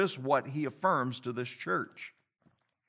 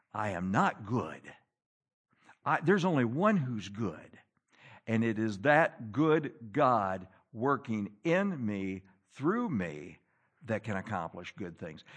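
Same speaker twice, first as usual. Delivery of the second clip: hushed humility; 9 semitones lower, 6 dB quieter than usual. Real, not acted. Preacher to the congregation, hushed and low on God's goodness. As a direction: drop low and soft, slowing down. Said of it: "preacher lowers voice for humility".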